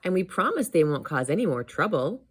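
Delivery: lightly voiced eager child; a touch of little-boy pleading; promising nephew. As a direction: promise earnestly as a hopeful kid.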